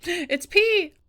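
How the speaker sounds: startled at the screen, loud disgusted shock; shocked yelp. Real, not acted. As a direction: blurt it out in disgusted surprise. Shocked reaction in game.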